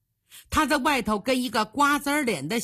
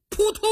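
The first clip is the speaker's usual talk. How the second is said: high-pitched "putong" sound effect; imitated falling thud; 11 semitones higher than usual. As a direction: voice the thump of a body falling.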